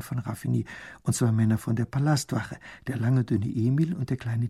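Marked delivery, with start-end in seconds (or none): none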